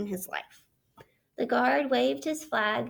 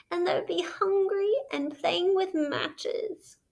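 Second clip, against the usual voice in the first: mock sobbing; 7 semitones higher, slower than usual. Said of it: "sobbed Toad".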